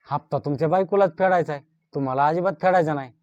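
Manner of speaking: eager agent pushing the loan; fast eager pitch. Acted.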